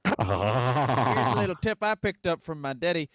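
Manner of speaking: lightly voiced hillbilly giving tips; hint of a porch-sitting yokel; mock redneck advice.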